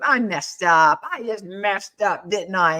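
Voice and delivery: lightly voiced Cowardly Lion; a drawn-out hint of the stage lion. Grandson owning his stumble in The Wizard of Oz, lion voice. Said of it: "In that lion voice".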